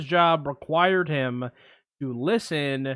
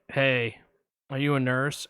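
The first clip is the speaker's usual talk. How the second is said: creepy caller. Retold or imitated. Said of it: "I'm gonna play both parts".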